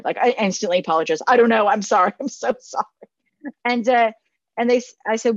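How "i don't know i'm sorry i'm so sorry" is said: a touch louder, hurried mock apology with a laugh at the end; flustered apology. Youth pastor apologizing to a parent, flustered and laughing. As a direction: blurt out sorry, half laughing.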